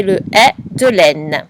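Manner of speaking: "est" said as an open è, slow and clear; open è sound. Shown as a demonstration. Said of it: "je t'aide aussi pour le est de chaise".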